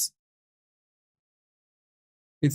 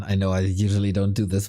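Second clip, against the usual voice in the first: ordinary talk, nothing marked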